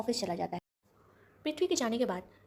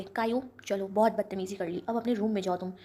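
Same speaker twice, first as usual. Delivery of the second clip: scolding; 4 dB louder than usual. Acted. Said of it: "दादाजी काया को डांटते हुए".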